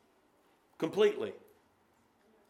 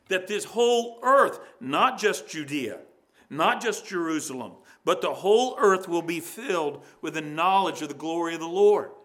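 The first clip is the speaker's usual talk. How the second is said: rising, louder proclamation of the promise; proclaiming promise; 5 dB louder than usual. Acted. Preacher to congregation, proclaiming God's promise, louder. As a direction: lift it up like a prophecy fulfilled.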